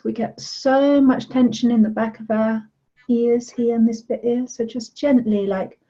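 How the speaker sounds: calm guided relaxation voice; guided meditation. Acted. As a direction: gently lead them through touching their head. Leads a body meditation.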